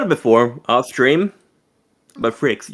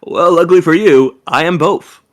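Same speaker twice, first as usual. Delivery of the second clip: cowboy narrator voice; 5 semitones higher, 5 dB louder than usual. Pretend. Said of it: "you sound like a cowboy or a fucking narrator".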